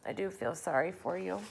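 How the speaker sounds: murmured. A narrator's reading. Miss Spider consoling the centipede, soft murmur. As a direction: say it softly with pity. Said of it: "she murmured".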